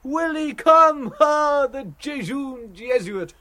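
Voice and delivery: high, loud, drawn-out gleeful cry; theatrical, singsong exclamation of glee; delighted cry. A narrator's reading. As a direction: crow it out with delight, stretching the words. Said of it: "laughing with delight, cried".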